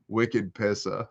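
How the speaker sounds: put-on light Boston accent. Trying out Boston-area slang, light Boston accent. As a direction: toss it off with Boston vowels. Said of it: "she starts talking like this".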